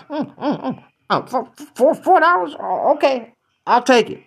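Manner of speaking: high, stammering disbelief at the price; squeaky flustered customer repeating the price; shocked stammer. Acted. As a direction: stutter the number in shock.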